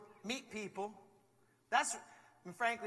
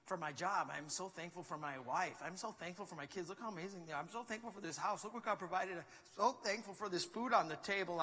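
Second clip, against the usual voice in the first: grateful musing. Pretend. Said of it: "walking around all the time just being like".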